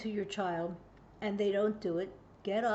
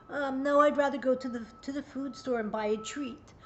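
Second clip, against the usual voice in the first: put-on defiant child; 3 semitones higher than usual. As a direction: push back like a bold kid. Child voiced refusing parent.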